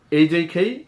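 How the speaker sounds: এই যেই খেই repeated quickly; rapid drill. Shown as a demonstration. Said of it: "এইভাবে দ্রুত উচ্চারণ করব". (দ্রুত এই যেই খেই)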